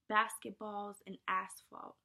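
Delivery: "basketballs and asphalt" said slowly, leaning on the shared vowel sounds; slow, drawn-out demo. Shown as a demonstration. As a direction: draw out the vowels to show assonance. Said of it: "You have the alt".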